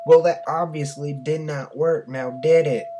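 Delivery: high, loud, irate officer; angry lieutenant. A narrator's reading. Lieutenant berates the private.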